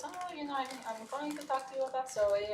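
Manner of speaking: put-on light Russian-accented teacher voice; a hint of a thick Russian accent. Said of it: "Very thick Russian accent".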